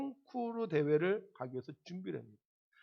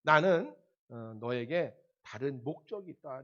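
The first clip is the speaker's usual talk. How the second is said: voice of God; 5 semitones lower than usual. Retold or imitated. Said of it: "하나님의 계획입니까".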